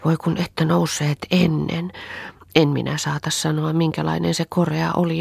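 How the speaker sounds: put-on a little girl breathlessly describing a wonder; a lightly voiced excited girl. Anni tells Auno about the bird, a lightly voiced eager child. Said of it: "Anni palavin silmin ja leimuavin kasvoin".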